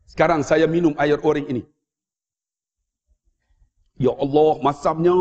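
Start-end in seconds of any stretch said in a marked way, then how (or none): 4.0-5.1 acted relishing of something very sour; mock puckered savouring; pretend sour reaction. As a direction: exclaim as if a sour drink just hit. Pretends to drink sour orange juice.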